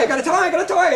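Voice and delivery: a hint of manic riffing; lightly voiced goofy improv; Robin Williams riff. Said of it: "or it would be on a tie".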